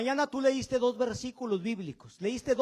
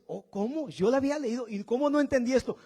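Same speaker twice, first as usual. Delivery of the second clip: mock amazement; 4 semitones higher, 3 dB louder than usual. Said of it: "Cada que tú vuelvas a leer la Biblia dices".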